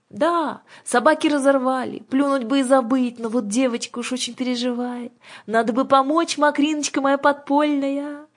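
high, loud, wheedling witch; high-pitched old-witch banter; witch Aga, theatrically fussy. Acted. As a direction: put on a high voice and make light of it.

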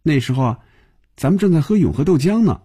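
high, amused, opening on a laugh. A narrator's reading. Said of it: "笑着说".

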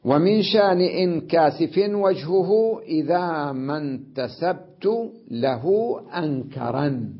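slow, stretched poetry reading; verse recitation. Shown as a demonstration. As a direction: recite metrically, pausing between words.

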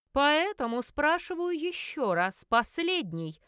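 cold final warning. Acted. Investigator warns the weeping witches, coldly slow. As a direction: lay down the last chance. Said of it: "холодно произнёс он".

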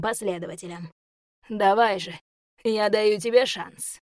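gloating demon taunt. Acted. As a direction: taunt him, savouring power. Demon taunts the weakened elf.

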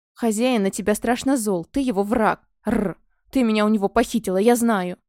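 ordinary delivery

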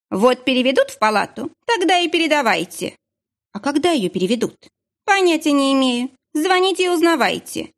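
high, curt irritation; irritated clerk. A narrator's reading. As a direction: brush her off impatiently. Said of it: "раздражённо бросила трубку". (раздражённо и отрывисто)

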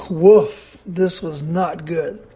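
usual speaking voice

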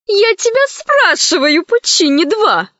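high, insistent grandma calling out; said loudly. A narrator's reading. Grandma lands and loudly questions Puccini, high and pressing. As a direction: demand an answer from on high. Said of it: "сказала она громко".

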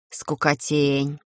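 low, slow, bored scoff; ironic snort. A narrator's reading. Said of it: "Иронично фыркнула".

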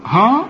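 ها with a thick, backed vowel; wrong heavy h. Shown as a demonstration. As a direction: mistakenly thicken ها. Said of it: "خطأ". (تفخيم خاطئ في ها)

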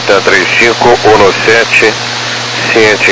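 normal talking voice

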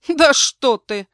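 громко, выше и медленно; воскликнуть с издёвкой; насмешливое восклицание. A narrator's reading. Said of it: "воскликнул он". (громкое насмешливое восклицание)

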